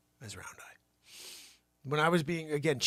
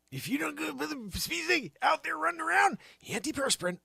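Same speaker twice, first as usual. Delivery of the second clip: ad pitch; 13 semitones higher, 5 dB louder than usual. Acted. Mock product plug.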